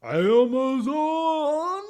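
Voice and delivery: high, loud, very slow mock growl; hammed-up growling delivery voice. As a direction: drag the word out in a silly growl. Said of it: "with the growling voice".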